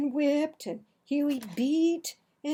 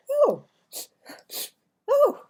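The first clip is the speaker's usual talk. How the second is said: put-on high, louder startled cry of a boy; alarmed boy; 14 semitones higher, 9 dB louder than usual. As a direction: yelp in alarm.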